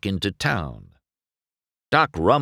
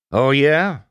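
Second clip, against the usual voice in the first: higher, louder scornful challenge; demanding; 7 semitones higher, 6 dB louder than usual. A narrator's reading. Doc demanding of McQueen, scornful and loud. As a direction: fire it back with scorn. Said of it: "Doc demanded".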